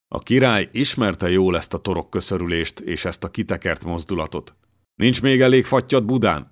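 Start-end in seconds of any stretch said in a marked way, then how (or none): 5.0-6.5 hissed. A narrator's reading. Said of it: "sziszegte Barbara".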